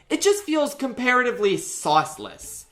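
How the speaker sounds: "comparatively" given extra weight; stress on comparatively. Real, not acted. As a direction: lean on the word "comparatively", pitch lifted. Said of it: "Emphasis on comparatively".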